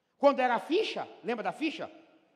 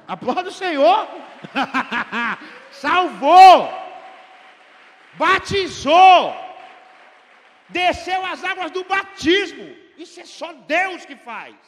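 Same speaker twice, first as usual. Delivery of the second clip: shouted, high jubilant praise; preaching at full force; 8 semitones higher, 18 dB louder, slower than usual. Real, not acted. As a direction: roar the victory to the congregation.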